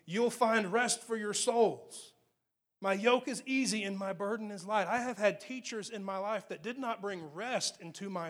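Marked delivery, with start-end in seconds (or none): 0.0-4.9 scripture reading. Acted. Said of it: "he goes on to talk".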